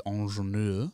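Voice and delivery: imitating a French-tinged Cockney "ingénieur"; put-on Michael Caine pronunciation; Michael Caine accent. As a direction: quote the film word in a Caine accent. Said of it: "as he says in the movie".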